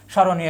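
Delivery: স্মরণীয় said with the ম after স left silent; silent ম-ফলা. Shown as a demonstration. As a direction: say স্মরণীয় as "shoroniyo", no m after the first sound. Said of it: "মফলার কোনো উচ্চারিত হচ্ছে না". (স্মরণীয়-তে ম-ফলা অনুচ্চারিত)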